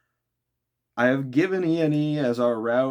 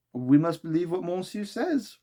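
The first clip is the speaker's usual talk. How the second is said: high, courteous valet voice; a deferential manservant correcting gently; polite servant; 7 semitones higher than usual. Acted. Conseil corrects Ned, politely deferential. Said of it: "replied Conseil".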